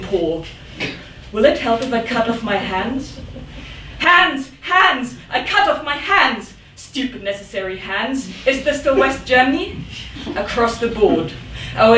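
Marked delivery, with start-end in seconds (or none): 4.0-6.5 anguished cry of hands, pitched high; sudden anguished outcry; cried out. Acted. Cries out word repeatedly. 6.7-8.3 softly spat contempt; bitter mutter. Acted.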